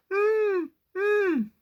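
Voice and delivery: high whimpering hum; injured dog whimper. Shown as a demonstration. Storyteller imitates the injured wolf's high whimper. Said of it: "do it with me one more time".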